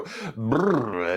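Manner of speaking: cold brrr. Retold or imitated. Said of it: "You step outside and go".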